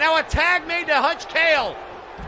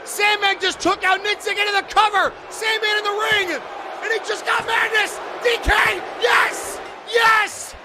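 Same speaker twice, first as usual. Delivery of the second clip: higher, building excited yells; excited shouting; 4 semitones higher than usual. Real, not acted. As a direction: cheer the win. Excited play-by-play at a big win.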